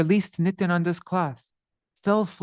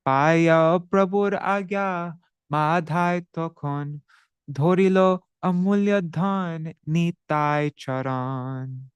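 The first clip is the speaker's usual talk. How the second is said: slow, measured recital of a Bengali verse; verse recitation; slower than usual. Acted. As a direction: intone the scripture line slowly and evenly.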